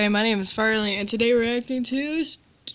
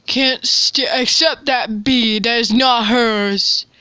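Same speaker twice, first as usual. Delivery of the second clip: indignant; 5 dB louder, slower than usual. Real, not acted. Outraged at the bee.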